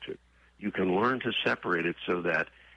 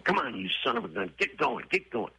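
high, fast, impatient yelling at a horse; a mild mock outburst, much higher and faster; mock angry urging; 10 semitones higher than usual. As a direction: hurry the horse along in a put-on temper. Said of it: "if you start to get mad".

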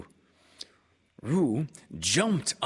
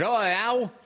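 put-on high, loud squeaky child voice; a tiny joey piping up; Roo's voice; 13 semitones higher, 6 dB louder than usual. A narrator's reading.

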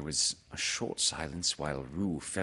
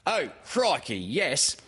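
high, louder mother character; offhand agreement, pitched up; Kanga; 8 semitones higher, 4 dB louder, slower than usual. Acted. Mother half attending to Pooh, in a high voice. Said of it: "said Kanga".

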